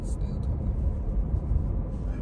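very slow whispered mutter; slow soft whispered aside. Real, not acted. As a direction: breathe it out under the breath. Muttering during argument.

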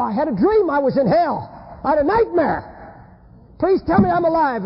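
panicked pleading. Acted. Man begging his wife after a nightmare, panicked.

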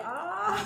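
sharp high yelp breaking into a laugh; pained cry into laugh. Real, not acted. Woman ripping off a peel mask, high yelp then laugh. Mask rips near her eyes.

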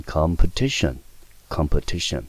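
competition with the stress on TI; stress before -tion. Shown as a demonstration. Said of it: "它的重音一定是落在省前面这个音节".

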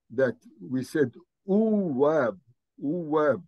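uwab with a glide w between u and a; pronounced uwab. Shown as a demonstration. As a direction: stretch uwab slowly with the w. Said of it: "we say, don't say uab".

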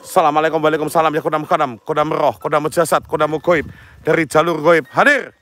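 steady chanted summoning words; incantation. Acted. Ghost hunter chanting a summoning mantra to the spirits, a lightly intoned chant. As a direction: recite the mantra like a shaman calling spirits.

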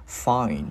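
FIND complete, N closed off by D; added D. Shown as a demonstration. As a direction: finish "Find" with a D after the N. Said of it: "gắn cái chữ D vào". ("Find": thêm âm D sau N)

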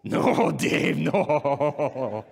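a hint of Spanish-accented no; Sahid impersonation. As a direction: scold Dave gently in a Mexican accent. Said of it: "Doing my best Sahid impersonation".

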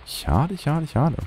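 high, drawn-out sing-song sigh; sing-song lament. Real, not acted. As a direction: croon the regret up high. Sighing over a lost setup.

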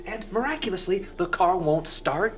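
high, loud, slowing sarcasm; sarcastic suspicion. Acted. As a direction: spell it out as too convenient.

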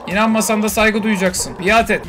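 bully it into obeying; domineering command. Pretend. Loud domineering demands at creature.

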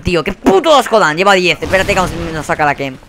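ordinary talk, nothing marked

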